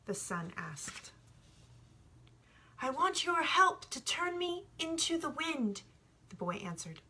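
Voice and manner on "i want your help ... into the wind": put-on higher, eager young shepherd explaining; young boy, earnest. The boy tells the sun about love, earnest and higher. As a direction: press the point as a sincere boy.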